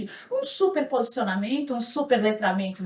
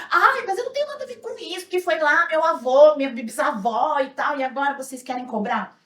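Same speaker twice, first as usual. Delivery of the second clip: imitated protesting; 2 semitones higher, 4 dB louder than usual. White people excusing themselves from antiracism, mimicked protest. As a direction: mimic people disowning responsibility, settling as it goes. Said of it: "Aí muita gente vai falar assim".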